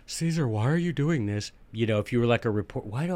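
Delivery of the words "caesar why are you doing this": a light reporter voice, a touch softer. Pretend. Hint of a reporter questioning Caesar. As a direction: quiz him like a TV reporter. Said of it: "I don't need to always do that voice".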